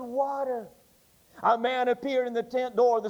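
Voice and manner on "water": faint breathy whisper of a dying man. A narrator's reading. Dying man whispers for water at the tent door. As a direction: barely get the word out, whispering. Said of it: "he whispered".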